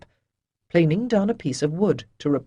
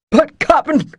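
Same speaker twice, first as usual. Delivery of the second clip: higher, louder whining plea; childlike wail; 10 semitones higher, 10 dB louder than usual. Acted. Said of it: "Avon wailed, childlike".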